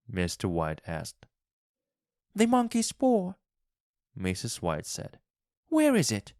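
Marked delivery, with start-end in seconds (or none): 2.3-3.3 very high, urgent female-character voice; high, insistent wife; excited wife. A narrator's reading. Wife's voice, excited demand. 5.7-6.3 very high, urgent female-character voice; high, insistent wife; excited wife. A narrator's reading. Wife urgently asks husband.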